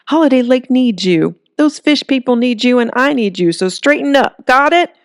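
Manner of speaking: building from firm to high, loud scolding; stern school principal. A narrator's reading. Holly scolding tearful Earl into action, stern principal voice. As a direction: lay down the law like a principal. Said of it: "She sounded like a stern school principal".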